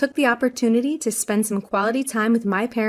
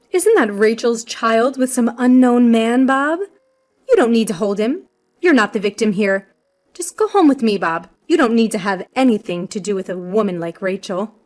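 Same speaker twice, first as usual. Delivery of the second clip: disdainful accusation; 4 dB louder than usual. Acted. Mother-in-law rejects baby before Bob.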